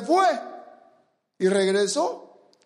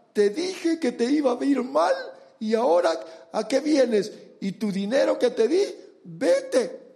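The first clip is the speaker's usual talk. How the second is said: higher, reproachful I-told-you-so; a mock rebuke of a prodigal son, higher than his own voice; scolding father; 4 semitones higher than usual. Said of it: "no le dijo de esta manera".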